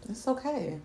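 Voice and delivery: soft whispered comfort. Real, not acted. Consoling her friend about a dry spell, whispered. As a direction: breathe it gently to soothe.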